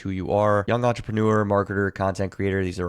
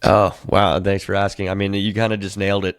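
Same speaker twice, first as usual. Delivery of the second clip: surprised; 5 dB louder than usual. Real, not acted. Reacts to hearing his clone.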